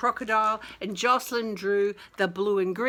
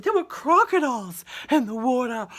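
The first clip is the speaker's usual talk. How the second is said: put-on loud, high childish alarm; children crying out; 12 semitones higher, 5 dB louder than usual. Children warning about crocodiles, loud high alarm. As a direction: shout the warning like a scared kid. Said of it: "the kid children said".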